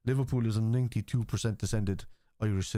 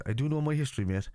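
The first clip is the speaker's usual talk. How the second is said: higher-pitched mock protest; mimicking a chatter; 5 semitones higher than usual. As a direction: read the chatter's claim back, pitched up. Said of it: "let me see what he says".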